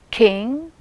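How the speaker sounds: "king" with a puff of air after the k; aspirated k. Shown as a demonstration. Teacher contrasting king with skill, k aspirated. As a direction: release the k of "king" with breath. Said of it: "yes, aspiration".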